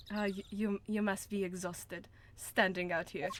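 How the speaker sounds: hesitant, lightly put-on German accent; badly faked German accent. Prosecutor offering to show the crime scene, tentative German accent. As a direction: attempt a German accent, unsure of it. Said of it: "I don't know how to do a German accent".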